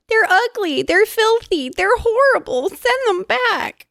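high, frantic screams of terror; screaming in fear. A narrator's reading. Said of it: "screaming in fear".

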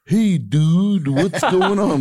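put-on high, loud surfer-dude American accent; California surfer dude. Host mocking how foreigners do American: California surfer accent. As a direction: toss it off like a laid-back California surfer. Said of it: "Like they do like a California surfer dude".

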